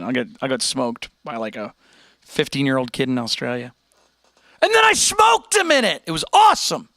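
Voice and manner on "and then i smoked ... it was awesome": very high squealed gloat; high-pitched hammed-up bragging; mock triumphant boast. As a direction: crow it way up high. Mock boasting about chess win.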